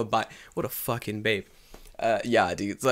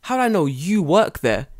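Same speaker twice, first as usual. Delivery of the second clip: higher-pitched retold argument; lightly raised mock voices; high mock exchange; 10 semitones higher than usual. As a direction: push the questions up high. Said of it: "He's like".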